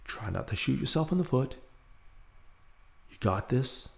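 soft, measured inner pep talk; quiet self-talk. Retold or imitated. Nervous man steadying himself before greeting two women, quiet self-talk. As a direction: coach yourself under your breath, slowing down. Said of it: "say to myself".

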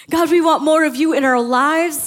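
urgent rallying prayer, pressing forward; impassioned preached plea. Acted. Pastor voices thirty churches praying to God together, impassioned plea. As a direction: plead with God on behalf of the whole church.

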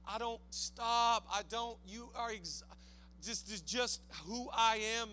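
hushed, deliberate, casual refusal to budge; Daniel. Acted. Daniel answering those who want him to stop praying, quietly resolute. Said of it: "Daniel's like".

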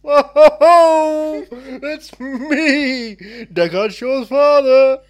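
loud, high hammed-up Cockney; Cockney accent. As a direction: boast loudly in a broad fake Cockney accent. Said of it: "Is that your Cockney accent?".

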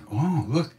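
high, sing-song delighted teacher; lightly voiced beaming guru; Maharaji's voice. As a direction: coo over the couple like a proud guru. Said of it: "Maharaji look at them and say".

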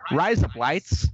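shouted mock Australian accent; over-the-top Aussie shout; bad Australian accent. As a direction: yell it in a hammed-up Australian accent. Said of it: "my Australian accent is".

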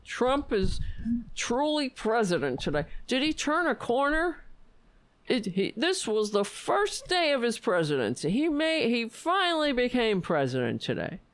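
high mocking newscaster voice; mock pundit. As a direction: ham up a gushing pundit. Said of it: "the corporate media be like".

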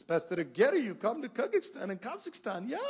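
put-on high, lilting Central Asian-accented English. Church planter asking a pastor to come, Central Asian accent. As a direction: imitate a Central Asian speaker's accented English, lifting the pitch. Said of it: "now he speaks better English".

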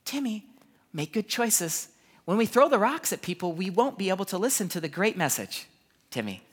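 lightly imitated patient preschool teacher; mock gentle correction. Christian school teacher corrects Timmy, exaggeratedly gentle. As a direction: coax a small child toward good behaviour. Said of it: "the Christian school had a different technique".

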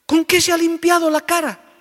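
put-on high, loud elderly woman asking; old lady. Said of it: "una señora mayor". (señora mayor curiosa, voz aguda)

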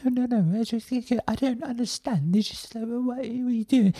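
high-pitched mock British accent; squeaky-high British impression with bumbling charm; Ricky Gervais. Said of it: "charming British, uh, swagger. You know, he's like".

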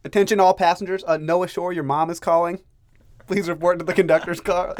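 loud, high tannoy voice; train announcement. Pretend. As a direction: boom it out over the speakers. Mock train announcement to passengers.

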